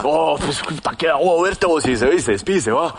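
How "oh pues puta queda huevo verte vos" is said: put-on drunk friend farewell. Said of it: "borrachísimo".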